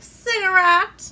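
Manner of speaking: high, loud, slow cigarette offer; hammed-up fifties vamp offering a smoke; sultry offer. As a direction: drag the word out temptingly. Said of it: "And she's like".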